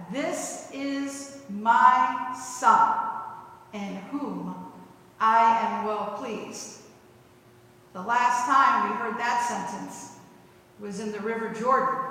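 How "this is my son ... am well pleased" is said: slow, solemn, lightly voiced God; a hint of a grave divine voice, spoken slowly. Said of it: "God interrupts and says".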